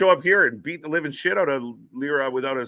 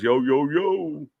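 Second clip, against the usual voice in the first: hype greeting; slower than usual. Pretend. Greeting a chatter.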